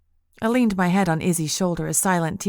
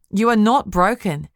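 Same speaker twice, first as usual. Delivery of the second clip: firm and louder, stress on not; sharp; 3 semitones higher, 5 dB louder than usual. Acted. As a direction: cut in sharply. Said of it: "Izzy said sharply".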